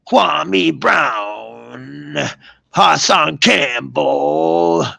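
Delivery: names stretched out slowly; slow, drawn-out mock call. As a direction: drag each name out like a mock announcement. Mockingly intones two names.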